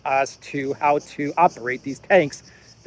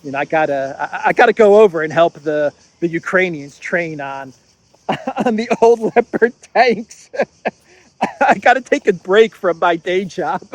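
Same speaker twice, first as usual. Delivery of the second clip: husband to wife, laughing. Retold or imitated. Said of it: "and he says".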